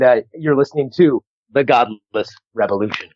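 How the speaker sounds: upbeat self-promotional radio drop; promo drop. Real, not acted. Comedian records a drop for the podcast, promo read. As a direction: read out a show bumper with a plug. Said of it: "would you mind doing a drop".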